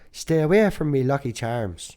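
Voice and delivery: put-on a jokey stage-Irish accent; mock Irish accent. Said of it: "go full Irish accent and go".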